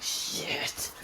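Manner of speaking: very soft, voiceless swear; drawn-out whispered expletive, retold; hushed curse. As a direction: whisper it in mock pain and dismay. Retold reaction to dislocated shoulder.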